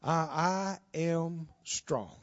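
slow, faint, struggling words; weak sick voice. Retold or imitated. Weak patient repeating the verse in bed. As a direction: push the words out weakly, slow. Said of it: "She said it again".

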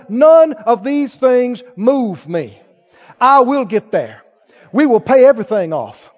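measured, resolute declaration; firm, unshaken vow; conviction of faith. Acted. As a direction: state it as settled fact. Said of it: "you gotta say".

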